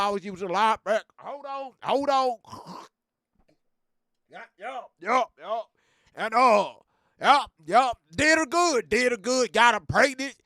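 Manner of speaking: lightly voiced old Southern redneck; a hint of a rowdy country good ol' boy; G V's redneck voice. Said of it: "how do you sound just like him".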